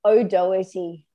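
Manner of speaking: O'Doherty said the speaker's own way, no R sound; own surname. Shown as a demonstration. Asked to say her name, she gives O'Doherty. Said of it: "Say your last name for me".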